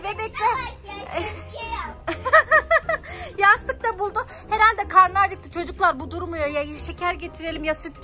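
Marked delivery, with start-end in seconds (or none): 0.6-3.3 long burst of laughing; laughter. Real, not acted. Laughing at the big baby.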